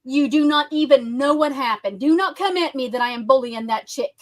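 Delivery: real heated, emphatic telling-off; fed up and forceful; getting loud. Real, not acted. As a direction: hit each word firmly, a bit loud. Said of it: "I'm getting loud".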